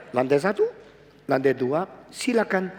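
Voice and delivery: a light friendly lift attendant; human voice. Shown as a demonstration. Preacher contrasts a human lift attendant, mildly friendly. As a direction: say it like a person helping you. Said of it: "Itu suara manusia".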